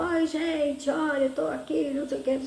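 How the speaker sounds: mock yelling into the phone; retold shout. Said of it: "aí comecei a gritar". (grito imitado, bem agudo)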